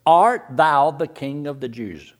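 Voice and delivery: slow, solemn King James reading of the question; scripture reading. Shown as a demonstration. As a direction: read it out like old scripture. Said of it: "are you the king of the Jews?".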